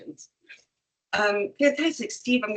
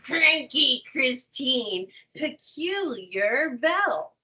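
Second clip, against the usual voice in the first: playful emotive name call; 4 semitones higher, slower than usual. Pretend. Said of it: "passing the emotion that goes to it".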